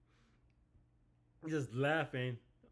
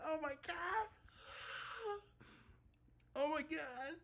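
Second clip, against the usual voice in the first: much higher, breathless oh my god; stunned fan reaction; awed excitement; 4 dB quieter than usual. Real, not acted. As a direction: gasp it out in disbelief. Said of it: "'cause that was hyped for this chapter".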